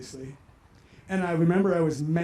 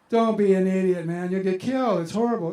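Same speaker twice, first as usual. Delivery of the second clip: louder, exasperated dad warning; retold scolding; 6 dB louder than usual. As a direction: imitate a father talking his son out of it. Father retelling scolding of son.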